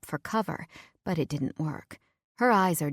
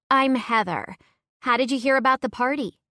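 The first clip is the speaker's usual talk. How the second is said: put-on friendly young girl; 7 semitones higher, 5 dB louder than usual. Heather introduces herself.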